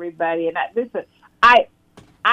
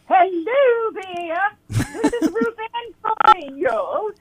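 high, slow, grand introduction; grand announcer voice; 12 semitones higher, much slower than usual. Acted. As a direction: announce yourself like a star. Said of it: "pretty nice acoustics here".

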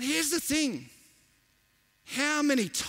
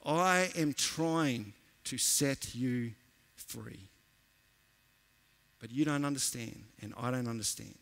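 low, soft, slow and tender; gentle voice of God; 7 semitones lower, 6 dB quieter, slower than usual. Pretend. God answering a suffering believer, low and soft. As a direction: hush right down for God's reply. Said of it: "God's response to you is this".

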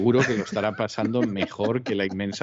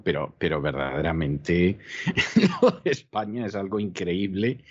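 stifled giggles; 2 semitones lower than usual. Real, not acted. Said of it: "estoy conteniendo la risa".

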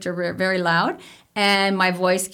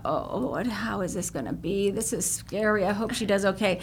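mock nervous fiance; 6 dB quieter than usual. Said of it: "he thought".

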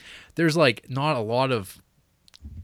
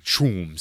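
imitated boom sound; 3 semitones lower than usual. Imitating the movie's sound effect.

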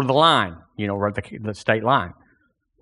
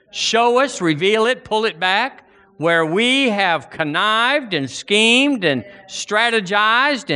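fervent prayer; 3 semitones higher than usual. Acted. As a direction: pour it out to the Lord before the congregation. Leads congregation in prayer.

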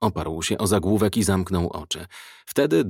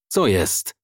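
growled. A narrator's reading. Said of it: "warknął".

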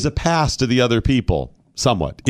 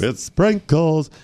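mock French echo; much slower than usual. Echoes partner's snooty voice.

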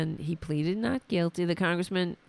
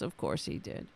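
whispered aside; 12 semitones lower, 8 dB quieter than usual. Real, not acted. Sardonic aside, unvoiced.

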